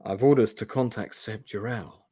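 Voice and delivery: lightly voiced sexy hero; a hint of sultry lone hero; Lone Wolf. Hero reveals his orders, in a mildly sexy hero voice. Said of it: "my sexy lone wolf voice".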